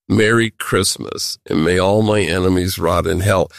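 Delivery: a hint of spiteful relish in the greeting; mock sinister greeting. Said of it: "sent that message out".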